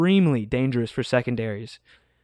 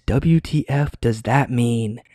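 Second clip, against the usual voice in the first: hushed, slow golf announcer voice; 2 semitones lower, slower than usual. Shown as a demonstration. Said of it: "So I have to use my golf voice".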